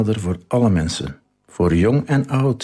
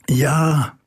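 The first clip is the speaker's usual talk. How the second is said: crowd shouting yes; 5 semitones higher than usual. A narrator's reading. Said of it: "En de mensen riepen allemaal heel hard".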